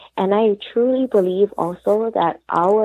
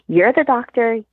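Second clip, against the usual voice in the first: laughing retort; 3 semitones higher than usual. Retold or imitated. Wife tells her therapist he's the doctor, half laughing. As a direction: toss it back with a laugh.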